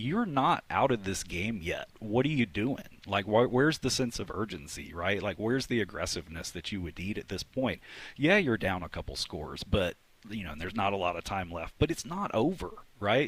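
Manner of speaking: ordinary talk, nothing marked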